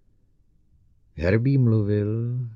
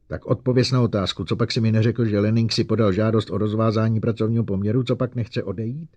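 louder, faster middle; angry demand; 2 semitones higher, 4 dB louder, faster than usual. Acted. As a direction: press the robot hard. Bogert demanding answer. (rozčilený nátlak)

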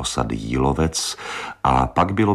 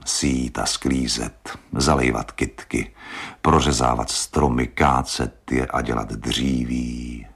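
dreamy. Acted.

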